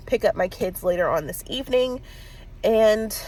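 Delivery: stuffy nose voice; congested. Real, not acted. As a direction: talk through a blocked nose. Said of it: "I'm congested".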